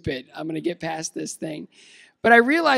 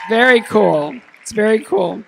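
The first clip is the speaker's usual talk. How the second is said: loud, bright delight; excited; 4 semitones higher, 11 dB louder than usual. Real, not acted. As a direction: cheer the good news. Excited announcement to audience.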